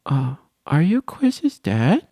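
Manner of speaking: put-on high, slow sugary girl voice; lightly voiced girl. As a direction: act out a sweet girl asking the dad. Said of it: "she's like".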